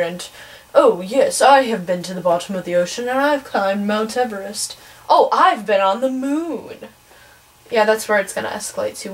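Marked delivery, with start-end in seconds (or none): 0.7-6.9 a hammed-up brag that slows down and climbs at the end; mock boastful bragging. Teen mocking travelers who brag about their trips, mock boastful. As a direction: puff yourself up like a show-off. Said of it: "really boastful to be talking about".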